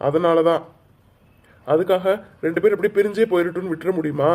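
forceful, earnest persuasion; insistent pleading. Acted. Aunt urging both boys not to spoil her plan, insistent pleading.

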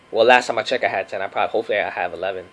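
drowsy, just woke up; half asleep. Real, not acted. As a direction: talk like you just rolled out of bed. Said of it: "I'm still, like, half asleep".

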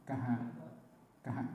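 กะหะ with a breathy puff after the k; กะหะ with a dull aspirated release; aspirated kha. Shown as a demonstration. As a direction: push air out on กะหะ. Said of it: "กอไก่ใส่หอหีบเป็น".

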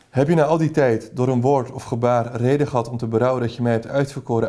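lively read-aloud of a romantic novel, lightly voicing the lovers; story reading aloud. A narrator's reading. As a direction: read the passage like telling a story to an audience. Reads Dumas passage aloud. (voorgelezen verhaal, levendig)

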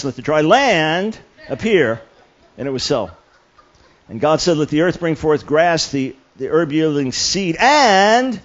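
stressing each italic word in the Genesis verses; clunky overemphatic scripture reading; odd emphasis reading. Shown as a demonstration. New believer forcing emphasis on italics. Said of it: "this wasn't quite working".

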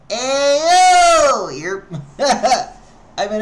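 loud laughing shout, slowed by giggles; high laughing call. Real, not acted. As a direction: push the words through the laugh. Still laughing after the joke.

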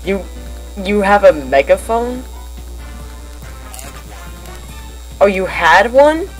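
loud distorted megaphone voice. Real, not acted. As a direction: shout through a cheap megaphone. Friend on the megaphone call.

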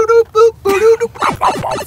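Mario impression. Does Mario sounds.

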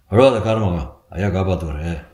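calm, comforting bystander; consoling. Acted. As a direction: talk a distraught man down. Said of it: "சமாதானப்படுத்தினார்கள்".

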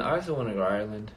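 a hint of an Irish accent, quick; slight Irish lilt. Real, not acted. Fan chat about travel, a touch of Irish accent. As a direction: let a little Irish accent slip in, fast. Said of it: "See how I had the little accent happen".

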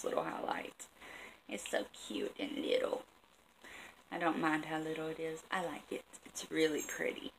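soft, breathy whisper for something tiny; cute little whisper. Real, not acted. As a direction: hush it like it's something precious. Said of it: "I don't know why I'm talking like this".

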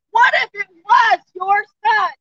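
shouting. Real, not acted. Protester pleads to passing crowd.

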